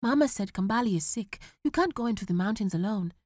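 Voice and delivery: lightly voiced pleading son. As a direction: plead with him. Boy still pleading.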